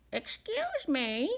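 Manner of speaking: a hint of a strange cave voice; mystery voice. A narrator's reading. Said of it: "said a voice from the back".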